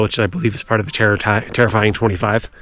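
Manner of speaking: stiff lips from the cold; mouth cold. Real, not acted. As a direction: talk through frozen lips. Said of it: "It's hard to talk with my mouth so cold".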